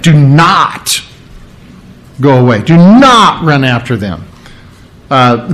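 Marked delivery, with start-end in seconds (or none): 0.0-4.2 "not" pressed firmly in "Do not go away"; stress on not. Shown as a demonstration. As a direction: lean on the word "not". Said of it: "that word "not" is very emphatic".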